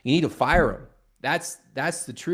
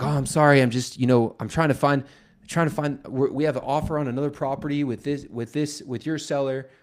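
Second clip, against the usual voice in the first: louder, stumbling apology from a caught-out caller; flustered apology; 3 semitones higher, 4 dB louder than usual. Retold or imitated. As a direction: imitate a caller backpedalling and stammering. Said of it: "Why are you yelling at me?".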